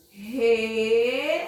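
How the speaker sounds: "Resolveu" in slow pieces, re... sol... veu; long pauses between the syllables, each one held; syllable division. Shown as a demonstration. Teacher carrying out the syllable division, slow and separated. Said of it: "divisão silábica realizada".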